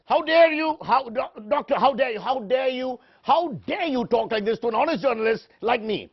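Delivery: hammed-up how dare you; mock outrage. Anchor scolds the doctor on air in mock outrage.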